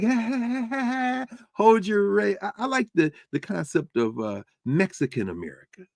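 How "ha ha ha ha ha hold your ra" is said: high mocking ha-ha laugh, higher voice; mocking Claudia Sheinbaum. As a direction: laugh him off in a higher mock voice. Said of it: "Claudia Sheinbaum is like".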